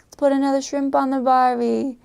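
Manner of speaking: imitated bogan Australian twang. Shown as a demonstration. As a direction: put on a stereotypical Aussie accent. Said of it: "a hillbilly or redneck type".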